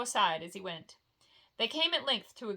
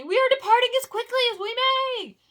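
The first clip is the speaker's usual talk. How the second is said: much higher, much louder dwarf's bellow; furious shout; 14 semitones higher, 11 dB louder than usual. Acted. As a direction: roar it at the mountain. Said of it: "cried Gimli".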